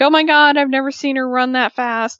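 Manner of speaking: high, lively mock astonishment; imitating amused disbelief. Pranksters marvel at her running, imitated amused disbelief. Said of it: "they're laughing".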